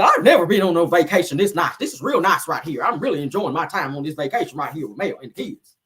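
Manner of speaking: lightly mocking country woman voice; Marlene impression. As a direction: imitate a country woman gushing, playfully. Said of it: "that's how Marlene talk with her country ass".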